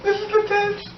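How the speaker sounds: extremely high squealed dread; hammed-up terrified squeak; mock panic. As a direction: imitate someone panicking in a tiny high voice. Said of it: "she was going to jail".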